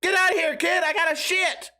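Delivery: put-on desperate man yelling at a kid in the bathroom; mock outraged yell. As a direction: shoo the kid out in a desperate hurry. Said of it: "I was like".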